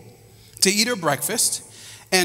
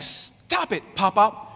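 put-on little girl voice; 2 semitones higher, slower than usual. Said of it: "And she's like".

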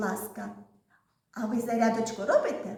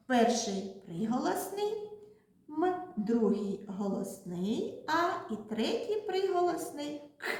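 slow explanation; 4 semitones higher than usual. Shown as a demonstration. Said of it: "у слові мак три звуки".

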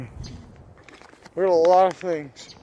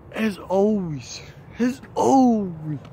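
drawn-out building catchphrase; 4 semitones higher, much slower than usual. Pretend. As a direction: stretch it out, building up.

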